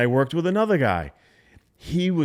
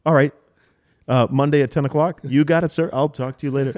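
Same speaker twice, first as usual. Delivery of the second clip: louder at the end; 2 semitones higher, 4 dB louder, faster than usual. Retold or imitated. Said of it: "The ending always had more volume to it".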